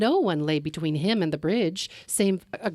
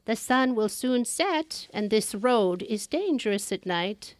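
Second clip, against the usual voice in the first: put-on old woman in green; 4 semitones higher than usual. Old woman warns traveler.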